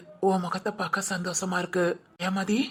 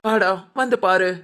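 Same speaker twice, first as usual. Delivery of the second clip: urgent call; 5 dB louder than usual. Acted. Aunt hurries in with news.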